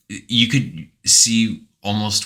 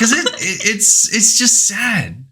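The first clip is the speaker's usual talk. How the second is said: teary laugh; 4 dB louder than usual. Real, not acted. Co-host moved, laughing at sadness.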